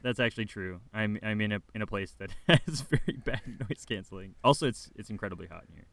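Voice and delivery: muffled, talking under a blanket. Real, not acted. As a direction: speak from beneath a blanket. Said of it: "The speaker's sitting under a blanket".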